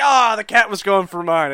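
mild mock yell; lightly acted shout of protest; retold yelling. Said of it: "like, yelling".

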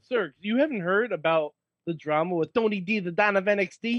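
lightly put-on Italian accent; a hint of mock-Italian mobster; bad Italian accent. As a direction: do a slight, hammy Italian accent. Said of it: "stop doing that accent".

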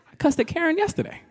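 high, laughing voice; mock the confused outsider in a high giggly voice; mock white person. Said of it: "They're like".

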